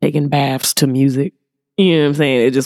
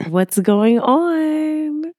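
drawn out, high and louder; louder into the mic; 13 semitones higher, much slower than usual. Real, not acted. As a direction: project it into the mic. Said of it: "You have to speak into the mic".

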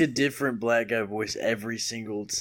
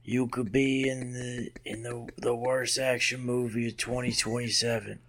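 drawled action-star pitch; lightly put-on tough guy, halting; Steven Seagal impression. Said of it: "If you do Steven Seagal's voice".

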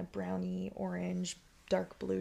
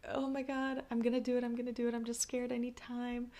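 nervous excitement; 5 semitones higher, faster than usual. Retold or imitated. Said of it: "being like".

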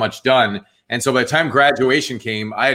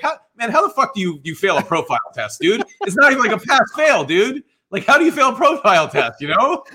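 put-on high-pitched, incredulous Jersey accent; 9 semitones higher than usual. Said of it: "in my Jersey accent".

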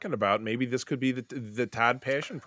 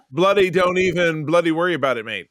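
mock Australian; 5 semitones higher, 6 dB louder than usual. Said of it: "He'll, he'll say".

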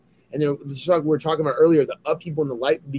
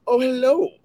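high sweet pet-talk voice; 11 semitones higher, 3 dB louder than usual. Real, not acted. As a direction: coo hello to the cat. Greeting the cat.

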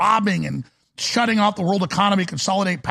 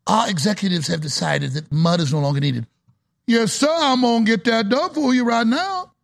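put-on Cajun accent; 4 semitones higher than usual. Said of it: "I do the coon-ass accent".

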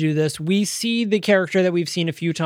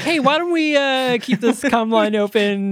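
mock radio chatter; 7 semitones higher than usual. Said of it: "they're like".

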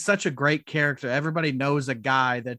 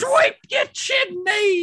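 very high, slow shout; chimney sweep voice; 6 dB louder, much slower than usual. Pretend. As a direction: bellow it in a shrill chimney-sweep voice. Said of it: "Why is the chimney sweep back?".

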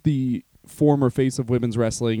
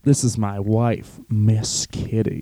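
Jerry Lawler impression; 4 semitones lower than usual. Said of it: "voicing Jerry Lawler".

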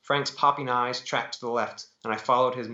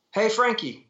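raised, high-pitched bar call; mock shout; 10 semitones higher, 4 dB louder than usual. A narrator's reading. Heckler shouting to Frankie across the bar, raised high call. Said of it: "someone shouted".

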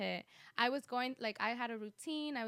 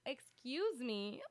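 drawn-out, indignant retelling; mock affront; 3 semitones higher, much slower than usual. Retelling cousin's challenge about consistency, mock affronted. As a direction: stretch it out as if slapped. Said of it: "I felt like I was slapped in the face".

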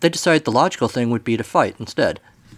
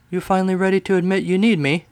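smug serpent; 8 semitones higher than usual. Acted.

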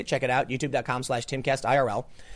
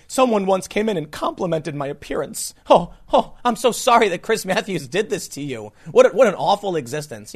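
mock sympathy; 2 semitones higher than usual. Mocking outraged sympathisers.

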